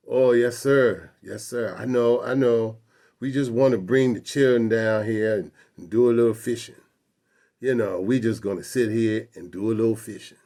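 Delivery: lightly acted appeasing old Southern voice; deferential grandfather. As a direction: placate the cop, mildly pleading and eager to agree. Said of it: "The way he's talking to this cop".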